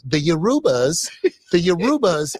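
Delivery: "Yorubas" said yuh-ROO-buhz, stress on the middle; mispronounced Yoruba. Retold or imitated. Professor repeating it to the class, mispronounced. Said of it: "And she kept saying".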